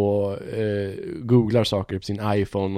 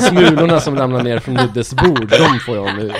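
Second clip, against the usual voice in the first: louder, laughing through it; 6 dB louder than usual. Real, not acted. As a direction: chuckle out the joke. Self-mocking joke among friends.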